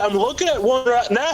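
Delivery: high-pitched mock Irish, close to laughing; Irish accent. Worker repeating the answer to a baffled caller, hammed-up Irish accent. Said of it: "I don't think I'm gonna do Irish".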